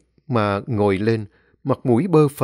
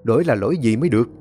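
flustered scolding; faster than usual. Acted. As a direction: hurry her up off the floor, rattled. Husband flustered, scolding kneeling wife. (chồng cuống quýt trách vợ, nói nhanh và to)

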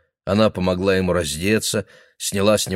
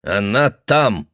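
put-on old man reporting; 3 dB louder, much slower than usual. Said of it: "сообщил он".

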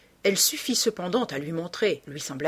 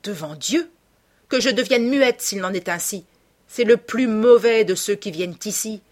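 raised, insistent woman's voice; higher-voiced woman pressing her claim; bitter bar woman, vehement; 3 semitones higher, 5 dB louder than usual. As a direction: swear and accuse with passion.

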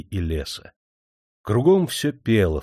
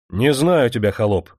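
a hint of the stern master, a bit louder; stern cut-off; 4 dB louder than usual. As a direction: cut the beggar off coldly. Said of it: "строго прервал его Демидов". (строгий хозяин обрывает нищего)

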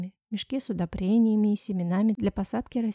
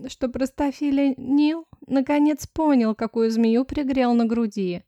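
slow, louder and condescending; lecturing tone; 3 semitones higher, 5 dB louder, slower than usual. Acted. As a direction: spell it out to a fool. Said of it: "поучительным тоном". (мачеха поучает падчерицу, медленно и свысока)

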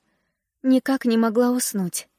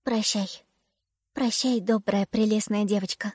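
twittering bird; 3 dB quieter than usual. A narrator's reading. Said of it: "прощебетала ласточка".

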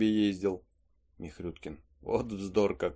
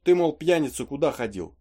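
mock-angry wife scolding, higher and louder; husband imitating his wife's scolding shout; retold scolding; 4 semitones higher, 5 dB louder than usual. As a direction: bark it like a nagging wife, half-acted. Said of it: "как примется ругать меня".

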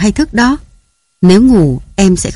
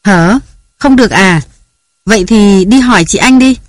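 high, loud harried mother; yelling at the kids while they get ready for school; flustered mother's shouting; scolding shout; 5 semitones higher, 3 dB louder than usual. A narrator's reading. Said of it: "với tiếng la hét của nàng".

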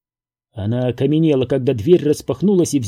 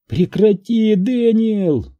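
high, loud anguished cry; desperate scream; 7 semitones higher, 3 dB louder, slower than usual. A narrator's reading. Florence screaming at Daniel to stop. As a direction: scream his name to make him stop.

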